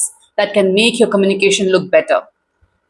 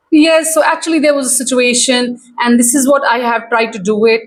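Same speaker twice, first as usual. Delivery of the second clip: unprepared rambling answer. Acted. Coach acting out unready interviewee, rambling and stalling. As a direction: jump in, then trail into um and mm. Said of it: "just suddenly jump in and start speaking all kind of answers".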